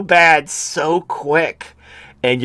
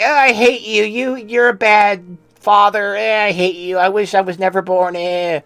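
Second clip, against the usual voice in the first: mimicking a kid's tantrum, lightly whiny and higher; mock tantrum child; 7 semitones higher than usual. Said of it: "when your child is throwing a tantrum".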